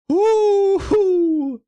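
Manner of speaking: loud, high ironic woo-hoo; mock cheer. Streamer mock-cheering his own replayed blunder, loud and high. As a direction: cheer your own disaster sarcastically.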